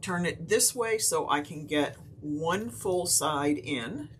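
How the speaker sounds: hiccuping between words; talking through hiccups. Real, not acted. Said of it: "getting the hiccups".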